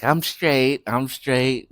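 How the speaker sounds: slurred tipsy insistence; drunk slurring. Retold or imitated. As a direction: say it like a drunk who claims she's fine. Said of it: "she's always slurring".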